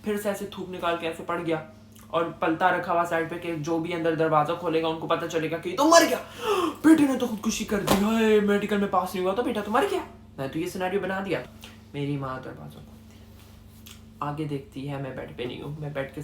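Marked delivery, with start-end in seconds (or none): 5.7-10.1 mock family wailing. Imagined family reaction to suicide.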